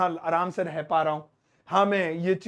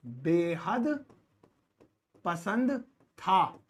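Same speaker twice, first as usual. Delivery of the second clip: slow stretched phrase; 3 dB quieter, much slower than usual. Shown as a demonstration. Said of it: "teacher drawls key phrase".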